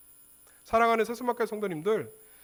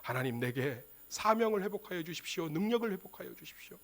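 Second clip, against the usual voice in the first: softer, pleading murmur to God; hushed prayer; 9 dB quieter than usual. Retold or imitated. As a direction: Samson praying quietly for strength restored. Samson's hushed prayer, retold.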